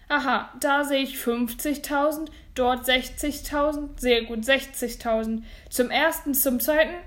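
projected countdown to the hammer; auctioneer calling bids. Acted. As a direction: call it toward a sale.

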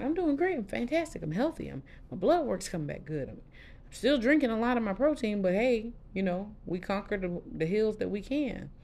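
high, bright-spirited "I'm doing great"; bursting with good news, high; upbeat reply. Retold or imitated. Answering her boss, high and upbeat.

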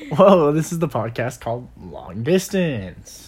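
slow announcer-style intro; commentator voice. Pretend. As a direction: open the show like a sports commentator. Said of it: "stop sounding like you're a commentator".

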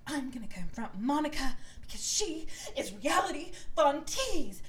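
imitating Heather rallying the housewives; mock dramatic announcement. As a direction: play up a reality-show accusation.

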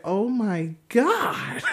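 slow, laughing oh my God; laughing disgust. Retold or imitated. Seeing butter on the woman's teeth, slow laughing. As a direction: savor the gross-out with a laugh.

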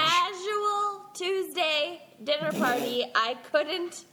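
casual stretched and lifted on a rise; stress on casual. Real, not acted. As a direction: lean hard on casual. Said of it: "Emphasis on casual".

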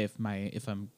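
a little sick, throat rough. Real, not acted. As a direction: talk through a cold. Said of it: "I'm a little bit sick".

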